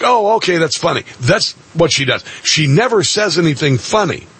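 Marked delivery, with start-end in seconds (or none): 0.0-1.0 higher, forced amused reaction; mock fake laugh line. Host imitating Harris forcing laughter, mock amused. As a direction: fake amusement to cue the crowd. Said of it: "get people to laugh like".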